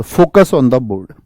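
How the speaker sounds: each word of "focus on the board" spelled out slowly; slow it right down like a teacher's instruction; slow drilled phrase. Shown as a demonstration. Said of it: "teacher drills the class". (धीरे-धीरे, एक-एक शब्द पर ज़ोर)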